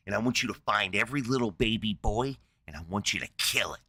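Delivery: a hint of a furious Moses; mock furious menace. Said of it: "fucking furious".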